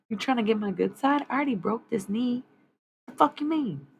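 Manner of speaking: loud and high, daring them to try; a loud, scoffing comeback; defiant shout. Real, not acted. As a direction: throw the challenge back, indignant. Scolding the unseen attacker.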